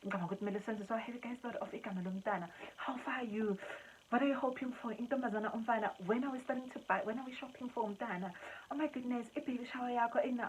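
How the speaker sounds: a touch of bubbly excitement; excited chatter. Retold or imitated. Daughter eagerly planning for the baby, excited. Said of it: "she started giving us some ideas".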